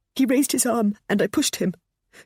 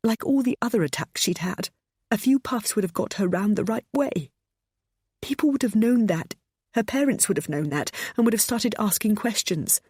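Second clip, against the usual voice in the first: raised, distressed confession; crying out; 7 semitones higher than usual. Acted. Pammy confessing to James and narrator, distressed. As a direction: plead your case through tears. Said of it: "she cried".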